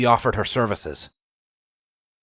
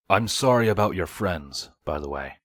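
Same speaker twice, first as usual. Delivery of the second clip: apologetic; 2 semitones lower than usual. Acted. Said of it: "Vladimir said apologetically to Cardis".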